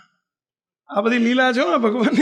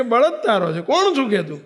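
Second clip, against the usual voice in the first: rude taunt; 4 semitones higher than usual. Acted. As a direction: talk down to him rudely, rising to a high jeer. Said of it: "ટૂંકારો કરીને મહારાજને". (તોછડાઈથી બોલતી ડોશી, છેલ્લે ઊંચો સૂર)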